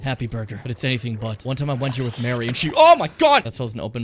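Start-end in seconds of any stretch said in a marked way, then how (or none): 2.8-3.4 sudden high loud yelp; startled shout. Real, not acted. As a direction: jump at the scare. Sudden scare.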